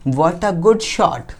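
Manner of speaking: very slow, spaced-out reading; slow dictation. Real, not acted. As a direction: read the example out slowly for learners. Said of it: "मैं slow slow बोलूँगा". (बहुत धीरे-धीरे पढ़कर लिखवाना)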